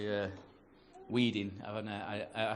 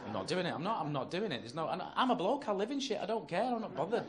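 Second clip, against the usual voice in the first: stubborn protest climbing higher in pitch; stubborn refusal; 5 semitones higher than usual. Acted. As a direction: dig in, voice rising with each refusal. Acted refusal in housework row.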